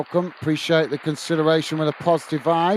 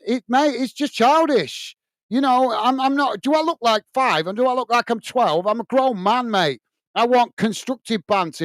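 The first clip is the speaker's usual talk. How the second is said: higher, heated telling-off; indignant rebuke; 3 semitones higher than usual. Real, not acted. Host scolding a chatter who insulted rival clubs, indignant and raised. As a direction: put the rude viewer in his place, firmly.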